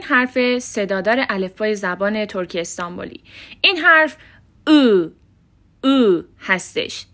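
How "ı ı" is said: "او" as a back unrounded ı, held alone; Turkish dotless I. Shown as a demonstration. Teacher introducing the fourth vowel, "او" as throaty dotless ı. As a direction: say "او" as uh from the throat, lips spread. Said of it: "این حرف رو بتونید تلفظ بکنید".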